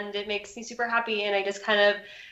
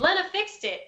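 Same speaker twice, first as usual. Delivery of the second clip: yelling down; 9 semitones higher than usual. Acted. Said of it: "I just kind of yell down".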